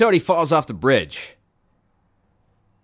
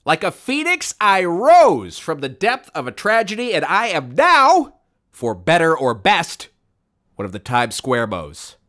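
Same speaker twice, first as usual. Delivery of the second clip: high, slow, mock-heroic proclamation; drawn-out hammy grandeur; grandiose; 3 semitones higher, slower than usual. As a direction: declare it like a triumphant epic speech. Mock-heroic declaration of rebirth.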